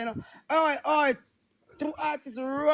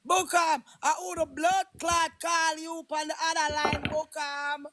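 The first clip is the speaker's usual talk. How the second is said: calling out; 4 semitones higher than usual. Real, not acted. Calling Bukam about a phone call.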